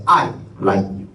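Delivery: "I" hit first and firmest, then falling; stress on I. Shown as a demonstration. Teacher shows students how stress changes meaning, stress on "I". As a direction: punch the word "I" in "I like you". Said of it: "it means I, no one else".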